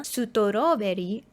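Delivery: "sutoroberi" as clean Japanese syllables, su-to-ro-be-ri; katakana pronunciation. Shown as a demonstration. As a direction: read "sutoroberi" the Japanese loanword way. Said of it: "if you Google the katakana".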